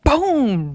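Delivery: high-pitched "boom" for a punch; drawn-out sound-effect boom; imitated loud hit. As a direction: mimic the impact without shouting. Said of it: "It was so loud".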